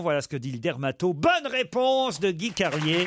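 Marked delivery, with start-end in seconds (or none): 1.1-3.1 slow, drawn-out quiz host announcement; annonce de jeu. Real, not acted. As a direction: proclaim the winner, stretching the words. L'animateur annonce la bonne réponse. (annonce étirée d'animateur de jeu)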